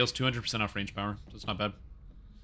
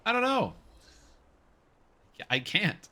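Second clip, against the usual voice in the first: high, loud dopey voice; dopey cartoon bellow; 9 semitones higher, 4 dB louder than usual. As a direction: play the goofy forgetful fool, loud. Acting out own memory loss.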